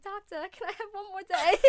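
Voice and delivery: high, breathy Broadway ingenue plea; sing-song sweet pleading voice; Audrey from Little Shop. Retold or imitated. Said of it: "I'm picturing it in, like, Audrey from Little Shop".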